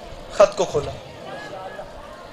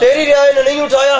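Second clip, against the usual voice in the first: raised, louder, rising on رعایا; louder emphatic repeat; 5 semitones higher than usual. Shown as a demonstration. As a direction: hammer it home to the crowd. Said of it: "ایسے نہیں سنیں گے،". (زور دے کر بلند آواز میں)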